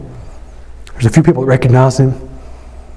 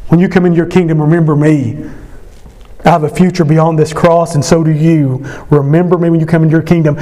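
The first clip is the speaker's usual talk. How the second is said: thief pleading; 2 semitones higher than usual. Retold or imitated. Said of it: "He's saying".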